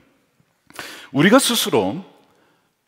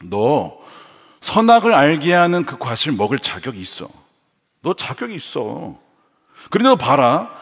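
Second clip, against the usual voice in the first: a hint of a sly serpent, building louder and higher; tempting serpent; 3 semitones higher, 3 dB louder than usual. Preacher voicing the serpent tempting Eve, mild sly coaxing. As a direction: coax and needle her, rising as you push. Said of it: "뱀은 지금 하와에게 이렇게 말하고 있는 것이죠".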